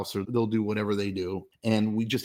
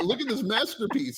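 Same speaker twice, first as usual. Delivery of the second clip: mock proud; 12 semitones higher than usual.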